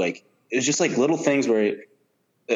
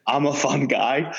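monotone; 5 semitones higher, slower than usual. Retold or imitated. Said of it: "Say it in the most monotone voice".

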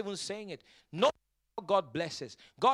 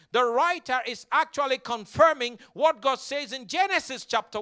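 raised, emphatic pulpit voice; emphatic preaching; 6 semitones higher, 7 dB louder than usual. Real, not acted. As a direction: drive the point home to the congregation. Preaches on the psalm.

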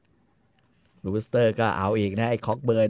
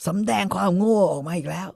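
mock insult; 8 semitones higher, 3 dB louder than usual. LaBoeuf insulting Cogburn.

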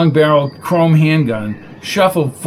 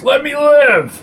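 desperate begging; 12 semitones higher, slower than usual. A narrator's reading. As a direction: beg shrilly for your life. Billy begging for his life.

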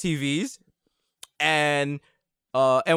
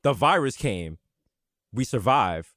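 game narrator; 6 semitones lower, slower than usual. Retold or imitated. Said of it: "they were like".

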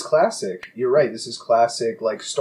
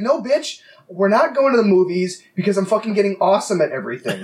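Batman retort; 6 semitones higher than usual. Retold or imitated. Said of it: "It's like".

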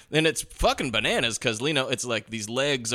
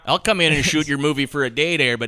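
Farina impression; 3 dB louder than usual. Impersonating Farina's voice.

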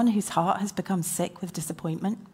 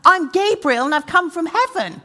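booming angel; 9 semitones higher, 8 dB louder than usual. Retold or imitated. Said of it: "nine-foot angel standing in front of him going".

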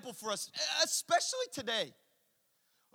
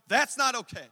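not hit hard; stress on not; 5 dB louder than usual. Acted. Preacher pressing "not" for the congregation. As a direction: lean on "not" in "That's not okay". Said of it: "stress on not".

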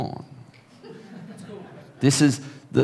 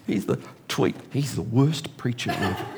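laughing; 7 dB quieter than usual. Real, not acted. Laughing at his own joke.

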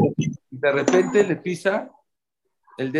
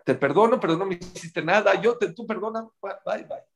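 higher, hurried phone goodbye; flustered forgiveness; 5 semitones higher than usual. Retold or imitated. Woman forgives the caller and hangs up, flustered. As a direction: act out an awkward rush to forgive.

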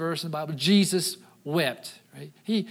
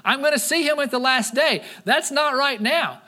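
Martha, mildly voiced; 5 semitones higher than usual. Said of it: "she's like".

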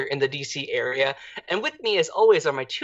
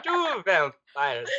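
slow vampire count, TWO stressed; drawn-out count like the Count; 3 dB quieter, much slower than usual. Pretend.

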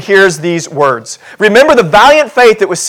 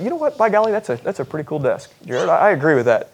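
admiring visitor; 2 semitones lower, 9 dB quieter, faster than usual. Pretend. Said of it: "You say".

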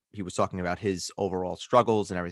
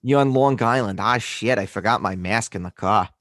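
put-on Long Island accent; exaggerated Long Island accent; 4 dB louder than usual. Imitating a shopper without a mask, Long Island accent. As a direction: play up the Long Island vowels. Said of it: "your exaggerated Long Island accent".

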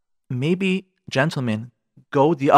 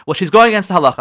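complaining husband; 4 semitones higher, 6 dB louder, faster than usual. Retold or imitated. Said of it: "so many people like".

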